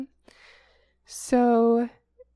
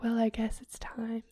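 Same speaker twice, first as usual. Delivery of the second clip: whisper; 6 dB quieter than usual. Retold or imitated. Defendant's resigned quote, whispered.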